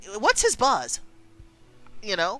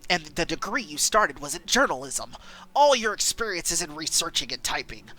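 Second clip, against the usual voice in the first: jerk dad. Acted. Dad belittling his daughter's new job, lightly dismissive. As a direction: shrug off her new job like it's nothing. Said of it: "I have to make Dad sound like a jerk".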